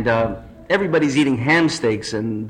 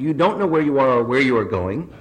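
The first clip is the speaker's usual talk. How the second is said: smug lecturing; 6 semitones higher than usual. Acted. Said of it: "replies the man on the ground".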